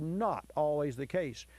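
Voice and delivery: NOT leaned on, then falling away; stress on NOT. Real, not acted. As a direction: make NOT stand out from the rest. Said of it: "Underline the word".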